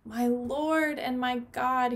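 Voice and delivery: slow awed cry, lightly done; slow amazed exclamation. Acted. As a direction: let the words come out slowly in awe. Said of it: "he exclaimed".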